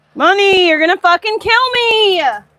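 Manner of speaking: shrill, very high, loud yelling. Calling to someone who won't come inside for food, yelling. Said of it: "I'm sorry, I'm yelling in your face".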